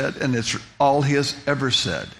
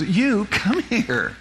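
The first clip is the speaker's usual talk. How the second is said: higher, much slower, drawn-out call; slow commanding summons; 8 semitones higher, much slower than usual. Retold or imitated. The stranger repeats his call to the narrator, slow commanding summons. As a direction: stretch each word out like an order.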